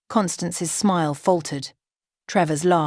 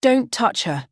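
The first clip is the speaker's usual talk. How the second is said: protective; 6 semitones higher than usual. Acted. Friend defends bride.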